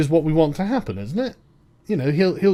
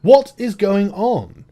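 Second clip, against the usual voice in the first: exasperated outburst; 4 semitones higher, 4 dB louder, slower than usual. Retold or imitated. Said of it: "I'm like".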